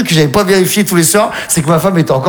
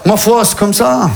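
résigné lent; 3 semitones higher, slower than usual. Shown as a demonstration. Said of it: "tu finis toutes tes conversations par".

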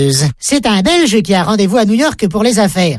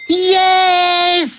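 exclaimed yes; 9 semitones higher than usual. Acted. Punchline shouted in English.

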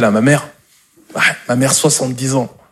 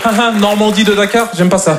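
imitating the mother; 6 semitones higher than usual. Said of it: "en mode".

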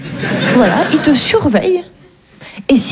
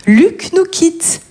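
annonce pompeuse; 3 semitones lower than usual. Retold or imitated. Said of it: "tu reçois une cagnotte avec".

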